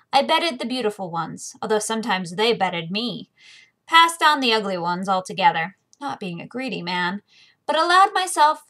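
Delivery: steady first-person fantasy reading; lightly voiced audiobook narration; story narration. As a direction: tell it like a worldly sellsword recalling. Reads the novel's first-person narration.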